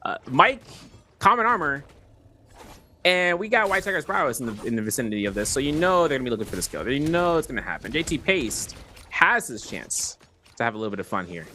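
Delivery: esports caster commentary with swooping emphasis; announcer-style match call; live play-by-play. Real, not acted. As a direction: set up the coming clash for viewers.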